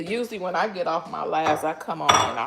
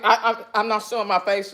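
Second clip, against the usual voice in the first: laughing; 3 semitones higher, faster than usual. Real, not acted. Laughing, too emotional to show face.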